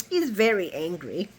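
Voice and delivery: mock-mild, as if over burnt biscuits; downplay it in a trivial little voice; understated imitation. Mocking Nina's report of his anger, understated. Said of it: "like she burnt the biscuits".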